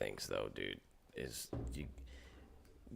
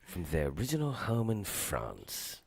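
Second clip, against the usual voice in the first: slow mock British documentary narration; mock British narrator; slower than usual. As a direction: play a pompous British wine narrator, slowly. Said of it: "put a fucking British accent on anything".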